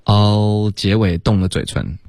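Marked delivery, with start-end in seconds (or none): 0.1-0.7 "all" held to a tongue-tip L; teacher's long model "all"; L ending, unrounded. Shown as a demonstration. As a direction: finish "all" without rounding the lips into OW. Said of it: "别凹了".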